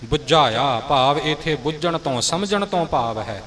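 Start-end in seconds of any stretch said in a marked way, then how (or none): 0.0-0.8 ਬੁਝਾਇਆ with a little weight on "bu"; slight push on the b in ਬੁਝਾਇਆ. Shown as a demonstration. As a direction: lean lightly on the first syllable of ਬੁਝਾਇਆ. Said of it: "ਥੋੜ੍ਹਾ ਜਿਹਾ ਭਾਰ ਬੱਬੇ ਉੱਪਰ ਦੇ ਕੇ".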